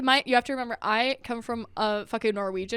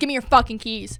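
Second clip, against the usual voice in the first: mock furious, acted, louder; 5 dB louder than usual. Acting out a fake toxic quarrel in a store: acting an angry toxic partner. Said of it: "I'll turn around and be like".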